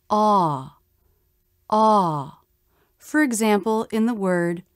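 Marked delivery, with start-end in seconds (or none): 0.1-2.4 "Ah" stressed, pitch curving up and falling away. Shown as a demonstration. Teacher demonstrating the vowel in a stressed syllable, stressed "Ah" with up-down shape. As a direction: give each "Ah" a full, long falling stress. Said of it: "has the up-down shape of stress".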